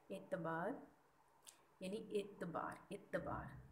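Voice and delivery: एतबार spoken slowly with a short i at the start; careful pronunciation. Shown as a demonstration. Teacher shows students the zer vowel, slowly. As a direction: model एतबार syllable by syllable. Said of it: "अलिफ के नीचे ... ज़ेर है".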